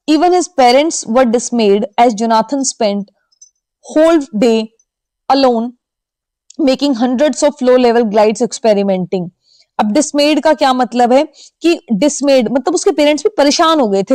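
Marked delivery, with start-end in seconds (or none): 0.1-9.3 slow dictation-style reading. Shown as a demonstration. Teacher reads passage aloud.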